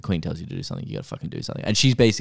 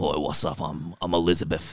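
soft, laughing royal impression; a giggly hint of the Queen; 4 semitones lower, 5 dB quieter than usual. Still doing the Queen voice, softer and laughing. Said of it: "my Queen voice".

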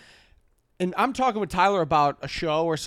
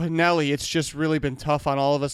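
mock grief; 3 semitones lower than usual. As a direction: drag it out, feigning a heavy heart. Imitating guy's tragic explanation.

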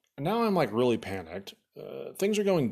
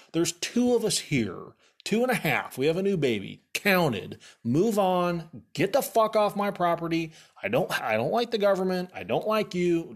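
telling him off; 5 semitones higher than usual. Retold or imitated. Ordering the census worker off the property, in mock anger. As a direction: bark it at him like you meant it back then.

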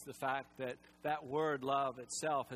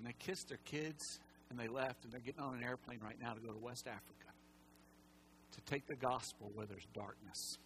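emotional; 5 semitones lower, 9 dB quieter than usual. Real, not acted. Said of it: "I'm sorry if I get emotional".

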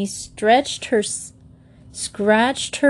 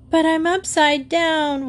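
higher whiny wail; 8 semitones higher than usual. A narrator's reading. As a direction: complain helplessly. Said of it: "wailed Geoffrey".

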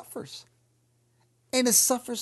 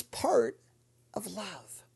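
dropped whisper; 4 dB quieter, much slower than usual. Real, not acted. Preacher to congregation, soft falling whisper. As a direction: whisper it, much softer. Preacher lands a point softly.

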